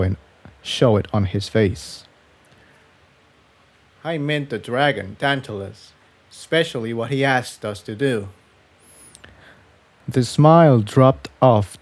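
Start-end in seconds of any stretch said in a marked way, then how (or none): 4.0-8.3 softer, serious colt voice; Jigsaw, hushed. Acted.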